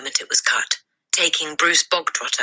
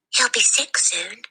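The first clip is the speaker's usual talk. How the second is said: higher breathy whisper; 8 semitones higher than usual. A narrator's reading. Girl whispering back to her friend, hushed whisper. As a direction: whisper the gloomy prediction. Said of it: "Lavender whispered back".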